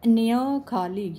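slow "न्य", pushed through the nose; nasal demo. Shown as a demonstration. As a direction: press "न्य खाली" out as a clear nasal sound. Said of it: "ये भी नाक से sound आई". ("न्य" को धीरे, नाक से ज़ोर देकर बोलें)

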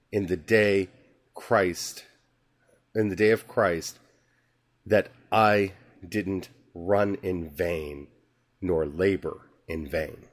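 slow, measured reading of the epistle; solemn scripture reading. Acted. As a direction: read the Bible passage with weight. Reads scripture passage aloud.

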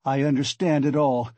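heated outburst rising in pitch; angry accusation. Acted. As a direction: accuse him in acted rage. Raskolnikov rages at Porfiri.

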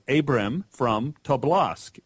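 put-on light Russian-Hebrew accent on the name. Grandfather answering the man in Texas, light Russian-Hebrew accent. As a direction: imitate an immigrant with a slight Russian-Hebrew accent. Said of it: "in a kind of Russian Hebrew sort of way".

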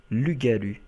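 Lugalu, à la japonaise, syllabes bien détachées; petit accent japonais. Pretend. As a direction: dis Lugalu avec une légère touche d'accent japonais. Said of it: "Avec un petit accent japonais". (prénom du Pokémon avec un léger accent japonais)

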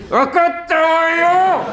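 high, slow, drawn-out coy wife; mock-sweet high wife voice; wife's put-on sweet voice. Wife rises, grinning, sweet reply.

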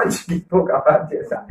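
laughing breathily through the words. Real, not acted. Host laughing at his own tongue slip, breathy laughter. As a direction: laugh it off, embarrassed.

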